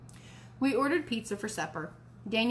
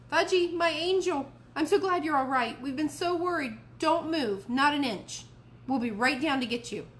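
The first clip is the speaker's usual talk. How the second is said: relieved mom; 6 semitones higher, 3 dB louder than usual. A narrator's reading. Mom grabs phone, relieved.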